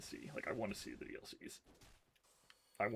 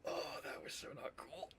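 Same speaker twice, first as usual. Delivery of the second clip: whisper; 2 semitones higher, 5 dB quieter than usual. Real, not acted. After death.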